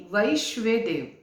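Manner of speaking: वैश्वेदेव as vaish-ve-dev, each part distinct; careful pronunciation. Shown as a demonstration. Teacher repeats the deity's name for viewers, careful pronunciation of वैश्वेदेव. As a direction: say वैश्वेदेव carefully, with "vai" first and "shve" in the middle. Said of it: "मैं फिर से बताऊंगी".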